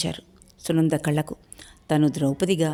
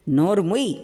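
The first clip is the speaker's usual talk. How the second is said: hall-shaking shout. Acted. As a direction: shout him down. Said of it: "hall దద్దరిల్లేలా అరిచాడు". (గట్టిగా అరుస్తూ)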